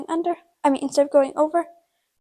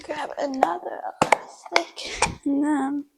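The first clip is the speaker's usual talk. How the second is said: whispering to herself; 3 semitones higher than usual. Real, not acted. Braiding the tail, she whispers the steps to herself. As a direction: murmur the steps under your breath as you work.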